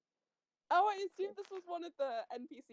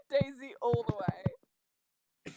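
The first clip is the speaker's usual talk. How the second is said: laughing; 4 dB louder, much slower than usual. Real, not acted. Laughing, cheering for Daisy.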